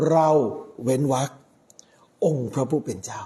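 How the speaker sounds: เรา set apart, a pause before องค์พระผู้เป็นเจ้า; pause after เรา. Shown as a demonstration. Priest showing the congregation where God's words break, pause after เรา. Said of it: "ตรงเนี้ยเป็นคำที่เว้นวรรค".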